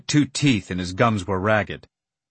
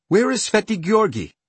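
much higher, louder plea; urgent pleading question; 11 semitones higher, 4 dB louder than usual. A narrator's reading. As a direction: ask desperately, voice rising. Desperate question to monk.

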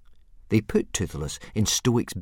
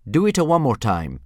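louder, higher dragon-tongue phrase; spoken Dragonese; 5 semitones higher, 7 dB louder than usual. Acted. Book reader demonstrating a Dragonese phrase, louder and higher. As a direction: pop out the strange dragon words. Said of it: "punctuated by shrill shrieks and popping noises".

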